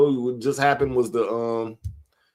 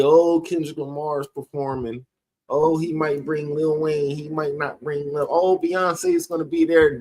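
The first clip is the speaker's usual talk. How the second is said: imitated excited fans; 3 semitones higher than usual. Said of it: "I know everybody".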